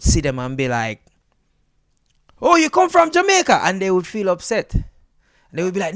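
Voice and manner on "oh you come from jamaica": mock surprised question.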